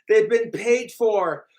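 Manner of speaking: sneering impression of the trolls; mocking trolls. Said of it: "It's like".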